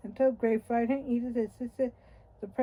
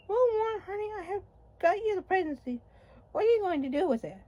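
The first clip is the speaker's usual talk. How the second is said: proud wife; 9 semitones higher, faster than usual. Retold or imitated.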